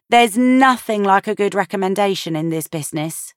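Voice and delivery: a hint of a knowing friend; Cynthia's voice. A narrator's reading. Cynthia advising Maddie, lightly voiced and knowing. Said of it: "Cynthia told her".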